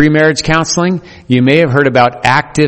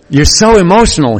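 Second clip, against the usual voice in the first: higher, louder, heated husband; emotional mock anger; 6 semitones higher, 3 dB louder than usual. Pastor acts out the husband's outburst, hammed-up and heated. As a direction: play it up as the angry husband. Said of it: "he said emotionally".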